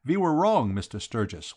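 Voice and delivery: put-on lightly accented Count, v for w; Count, earnest admission. Count admitting the mistake to the detective, earnest. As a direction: admit it firmly as a formal Count.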